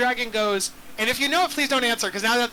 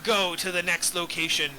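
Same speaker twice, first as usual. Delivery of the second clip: pirate voice. Acted. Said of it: "he has a pirate voice".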